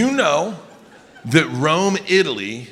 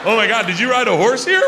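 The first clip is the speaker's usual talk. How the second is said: disgusted woman; 9 semitones higher than usual. Acted. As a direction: squeal in horror at the smell. Acted disgusted reaction scene.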